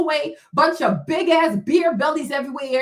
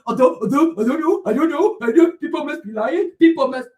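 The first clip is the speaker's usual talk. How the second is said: babbled, repetitive imitation of flustered excuse-makers; mocking stammer; 3 dB louder than usual. Mocks others' excuses, stammering.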